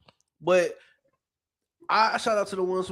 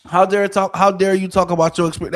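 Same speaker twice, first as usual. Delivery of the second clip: louder, hammed-up indignation; mock outrage; 5 dB louder than usual. Comic repeats the critics' scolding, louder mock outrage. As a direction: scold as if scandalised.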